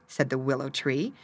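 ordinary delivery

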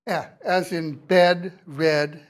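isolated eh for "E", then the same vowel in "bed, red"; short E examples. Shown as a demonstration. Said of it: "to a short E".

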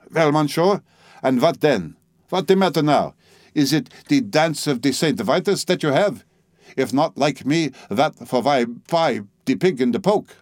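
a proud old Frenchwoman mocking him in her broken English; French-accented old lady. Old Frenchwoman mocking the narrator, French accent.

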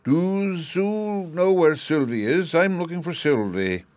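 put-on high, slow little-boy voice; Bruno. A narrator's reading. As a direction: ask like a small child, pitched well up. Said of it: "said the little fellow".

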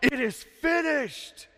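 high, slow, drawn-out cry of finality; Jesus. Acted. Preacher quoting words from the cross, crying out. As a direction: proclaim it slowly, pitched well up. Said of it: "kinda like Jesus, you know, on the cross".

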